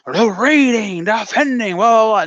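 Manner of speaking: high mock shout; a hammed-up yelled promo; mock yelling promo. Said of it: "you know, saying".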